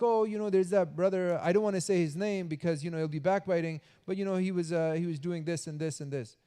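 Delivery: lightly voiced sneaky gossiper; sly gossip. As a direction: pretend discretion while spilling.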